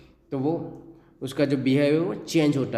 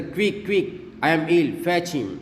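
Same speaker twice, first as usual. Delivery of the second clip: hysterical; 3 semitones higher, much slower than usual. Acted.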